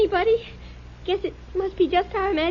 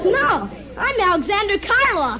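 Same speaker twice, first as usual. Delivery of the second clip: mock boast. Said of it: "tribute to my acting ability".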